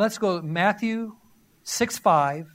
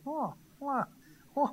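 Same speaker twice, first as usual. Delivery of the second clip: mock bewildered wah; 4 semitones higher, 5 dB quieter than usual. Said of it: "people's heads are like going".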